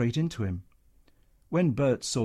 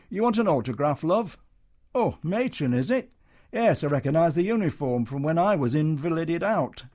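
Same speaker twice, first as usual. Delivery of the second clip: oily showman; 5 semitones higher, 4 dB louder than usual. Acted. Comedian greeting Matron slyly.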